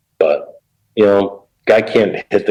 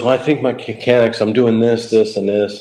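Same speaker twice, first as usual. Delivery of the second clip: put-on kid pitcher voice; 5 semitones higher than usual. Young pitcher voiced explaining himself.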